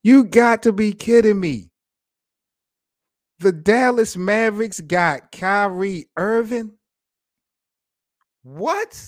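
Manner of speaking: loud, disbelieving exclamation; can't believe the news, loud; loud outcry of disbelief; incredulous. Real, not acted. Reacting to Kyrie trade.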